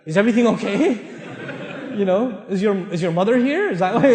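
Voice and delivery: mock bewilderment, soft and halting; shocked husband. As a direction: lightly act out a baffled, suspicious husband. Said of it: "he'll get all shocked".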